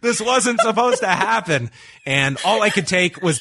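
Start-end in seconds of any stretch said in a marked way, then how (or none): 0.0-1.7 high-pitched mock protest; retold yell. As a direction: mimic a wrestler's wail for laughs. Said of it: "he yells on the floor".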